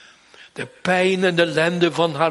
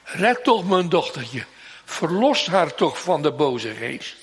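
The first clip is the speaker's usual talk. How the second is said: slowed, insistent begging; slow plea. Acted. Mother pleading with Jesus for her child, understated. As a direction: plead for the daughter, pressing. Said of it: "Als die moeder zo roept".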